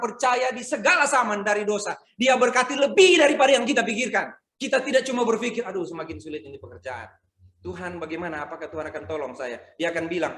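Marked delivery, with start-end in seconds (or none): 5.6-9.6 much softer, anxious murmur; worried prayer. Acted. Worker pleading with God, soft and anxious. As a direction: voice a tired worker's fretful prayer.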